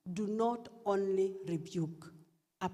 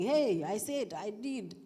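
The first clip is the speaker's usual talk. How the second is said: sharp, raised-voice parent scolding; mock shouting; 3 semitones higher than usual. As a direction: snap it like a parent losing their temper. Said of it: "Not shouting".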